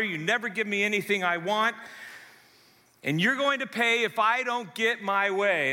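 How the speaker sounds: put-on whiny spoiled child. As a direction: play a spoiled kid stamping for what he wants. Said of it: "This is the kid that is so self- self-absorbed".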